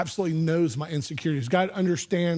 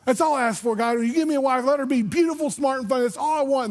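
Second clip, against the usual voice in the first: put-on eager, higher-pitched boy's prayer; a young boy pleading lightly with God; praying young boy; 6 semitones higher than usual. Young boy asking God for his future wife, higher earnest plea.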